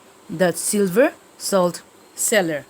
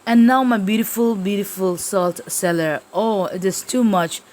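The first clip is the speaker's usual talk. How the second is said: distraught lament; 2 semitones higher than usual. Acted. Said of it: "Now she breaks down crying".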